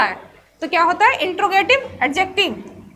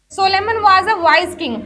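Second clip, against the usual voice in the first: slow example sentence; much slower than usual. Shown as a demonstration. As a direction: read out slowly, word by word. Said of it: "हम इसको find out कर सकते हैं".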